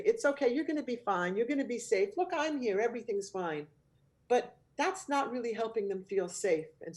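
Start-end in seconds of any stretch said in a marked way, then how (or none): 0.0-3.7 lightly acted, higher-pitched reassuring of a child; mildly played quick comforting; quick reassurance. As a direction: hurry to soothe a worried child, a touch higher. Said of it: "tempted to quickly reassure a child".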